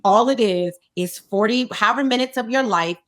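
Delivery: low, measured self pep talk; psyching herself up. Retold or imitated. Actress to the bathroom mirror before the scene, self-coaxing. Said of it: "psyching myself up in the mirror".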